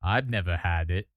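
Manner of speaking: low put-on reviewer voice; YouTuber imitation. Streamer trying to talk like the food reviewer, low imitation. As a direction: drop it way down, mimicking the YouTuber. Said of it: "how do you talk like him?".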